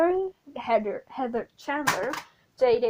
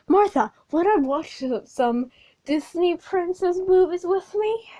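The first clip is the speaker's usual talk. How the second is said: sweet invitation; 6 semitones higher, 5 dB louder than usual. Retold or imitated. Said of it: "she's like".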